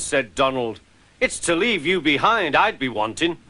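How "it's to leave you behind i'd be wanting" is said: high, lightly voiced Scottish engine; a grumpy Scot scolding. Donald scolds the van.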